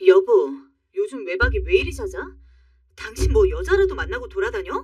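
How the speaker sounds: acted wifely anger, opening loud; angry outburst. Wife confronts husband about staying out all night, angry. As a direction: confront him with a touch of temper. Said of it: "제가 한번 버럭 화를 냈어요".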